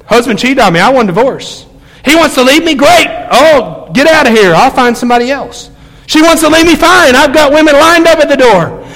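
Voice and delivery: mock the people who give up; mocking bitter quitters. Preacher imitates spouses ready to divorce, scornful. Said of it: "I hear that all the time".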